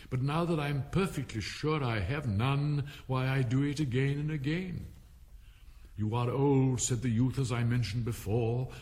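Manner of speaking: lilting, metrical verse reading; poem recitation. A narrator's reading. Alice reciting Father William to the caterpillar, in lilting verse. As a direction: lift the start of verses, keep the rhythm.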